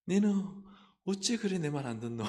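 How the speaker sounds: scolding in regional Korean dialect; exasperated dialect rebuke, acted; mock reproach. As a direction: play a lightly hammed-up Gyeongsang telling-off. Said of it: "책망을 받으실까요?".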